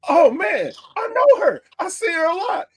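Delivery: fan's high-pitched excitement, re-enacted; excited recognition. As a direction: blurt it out high, thrilled to know her. Retells own excited recognition of her.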